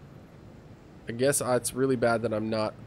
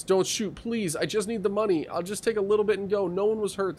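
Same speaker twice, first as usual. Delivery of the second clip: pleading robber voice; 7 semitones higher than usual. Acted. Voicing the nervous robber.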